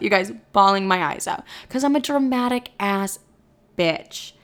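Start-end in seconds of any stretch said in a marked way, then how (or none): none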